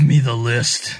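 slow villain impression, lightly done; Cicada. Co-host showing how the villain talks, slow impression. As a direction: drag out the demand like a comic-book villain. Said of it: "worst cicada impression of all time".

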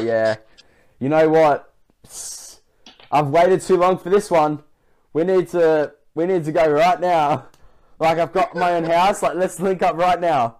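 slightly hammed-up, slow, urgent come-on; teasing mock suitor. Teasing a friend about texting women, mock-eager suitor.

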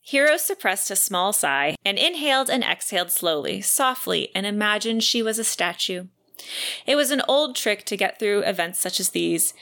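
measured audiobook-style reading; book narration. Acted. Podcaster reads a favourite quote to co-host, measured narration. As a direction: read the passage aloud with care, phrase by phrase. Reads novel excerpt aloud.

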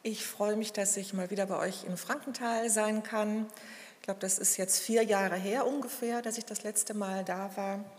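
talking around a cough drop; sucking a throat lozenge. Real, not acted. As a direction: lozenge in the mouth while speaking. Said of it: "entschuldigt bitte das Hustenbonbon heute in meinem Mund".

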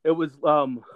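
breathless after running upstairs; out of breath. Real, not acted. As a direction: catch your breath between words. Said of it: "sorry, I'm out of breath".

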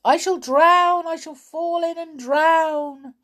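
high, loud wail of fear; frantic high-pitched toy voice; panicked yell. A narrator's reading. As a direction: cry out as if drowning. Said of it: "yelled Sailor".

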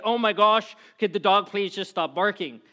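exasperated outburst, hammed up; mock exasperation. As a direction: act out a fed-up friend pleading. Retold exasperated friend complaining about barking.

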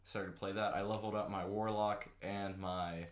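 talking while chewing gum; words around gum in mouth. Real, not acted. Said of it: "Can you stop chewing gum?".

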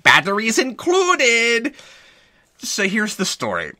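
high, slow, loud mock robot; bizarre robot voice. Reviewer imitating the hero's line to his girlfriend, bizarre robot voice. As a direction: drag each word out on a held, robotic pitch. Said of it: "goes into a bizarre robot voice".

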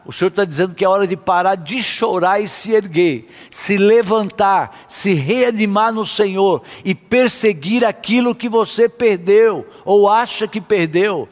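forceful, declarative sermon delivery; emphatic preaching. Real, not acted. Preacher urging believers to speak to their fears, emphatic preaching. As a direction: preach it with conviction, phrase by phrase.

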